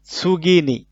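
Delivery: vocabulary model "সুগিনি" with a falling tune; Japanese word modelled. Shown as a demonstration. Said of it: "vocabulary word modelled".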